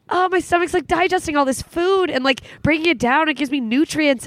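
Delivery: kind self-talk. Retold or imitated. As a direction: speak kindly to your body. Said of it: "I think of, like".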